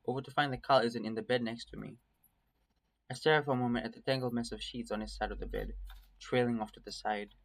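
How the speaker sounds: measured first-person story reading; story narration. A narrator's reading. Streamer reading a nightmare tale to viewers, story narration. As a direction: read it as an inner monologue.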